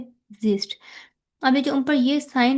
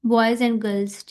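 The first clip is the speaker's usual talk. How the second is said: each word said separately and very slowly; slow careful citation of boys and girls; much slower than usual. Shown as a demonstration. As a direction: boys and girls pulled apart, word by word, with a full and. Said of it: "हम लोग इसको एक flow में बोलते हैं ना".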